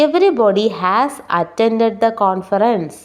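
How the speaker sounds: very slow, word by word English; slow dictation. Shown as a demonstration. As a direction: read it out slowly for the class. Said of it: "slow model sentence read". (വളരെ സാവധാനം വായന)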